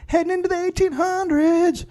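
high, dramatic announcer line. Pretend. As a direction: announce the era like a trailer. Trailer-style announcement.

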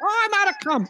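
high moaning cry; hammed-up climax wail; mock orgasm moan. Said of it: "this is how the person ... is going".

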